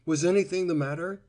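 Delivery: quick worried question; anxiously. A narrator's reading. Mother asking Cora what happened, quick anxious question. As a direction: ask fast and worried. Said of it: "asked the mother, anxiously".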